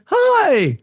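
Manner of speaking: high, lightly voiced machine hi; computer voice. Computer greets the box, high voice. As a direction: chirp hi like a gadget.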